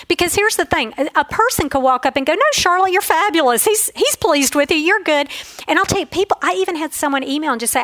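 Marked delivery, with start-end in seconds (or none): 2.3-5.3 imitating a reassuring friend. Friend walks up to reassure Charlotte, higher upbeat mock voice. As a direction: gush at her like a cheerful friend.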